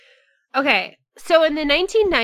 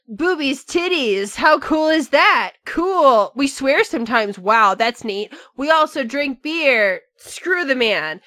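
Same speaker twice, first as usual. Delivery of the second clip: lightly voiced teenage boy thrills; a hint of a juvenile, easily impressed boy; thirteen-year-old boy; 2 semitones higher than usual. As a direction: play at being easily impressed, like a young teen. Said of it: "Everyone acted like thirteen-year-old boys".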